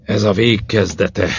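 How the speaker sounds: slow, resigned sigh in the voice. A narrator's reading. Man sighing to his companions that the end begins, sighed. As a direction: draw it out as a mild sigh. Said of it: "sóhajtott Mark".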